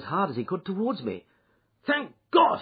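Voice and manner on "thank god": high, loud exclamation; relieved cry. A narrator's reading. Desperate bridegroom spotting a witness, crying out. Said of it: "he cried".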